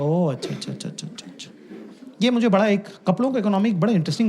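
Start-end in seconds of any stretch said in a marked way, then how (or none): 0.0-1.5 fading to a whisper; mock knowing "achha". Teller mocks friend with fading "achha, achha".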